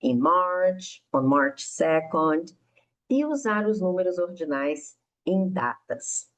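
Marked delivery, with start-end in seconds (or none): 0.0-2.5 slow model phrase, in March; careful teacher model; model example. Shown as a demonstration. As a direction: say in March and on March second slowly and clearly. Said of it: "como por exemplo".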